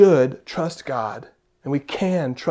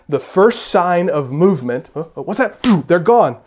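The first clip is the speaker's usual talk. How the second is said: sudden little gasp and rising alarm; startled bird, hammed-up; mock startle; 3 semitones higher, 6 dB louder than usual. Acting out startled birds.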